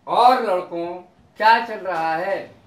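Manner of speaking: loud, casual hail; calling out. Shown as a demonstration. Asking some boys what's going on, calling out. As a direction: throw the question out loudly to a group. Demo greeting to seated boys.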